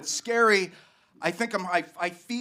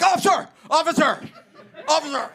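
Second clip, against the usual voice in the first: high, loud cries of officer; calling out; 9 semitones higher, 4 dB louder, faster than usual. Retold or imitated. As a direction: call to the cop for help, fading. Running up calling a cop.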